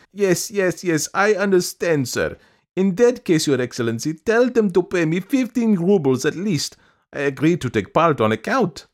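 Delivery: high, loud, persistent woman; piping, undeterred supplicant; eager petitioner. A narrator's reading. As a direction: agree quickly, then press the demand in a high voice.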